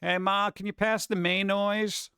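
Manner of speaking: "mayonnaise" drawn out as MAY-noise; mayo-noise. Pretend. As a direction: playfully ask with "mayonnaise" as MAY-NOYZ. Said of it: "if anyone pronounced it that way".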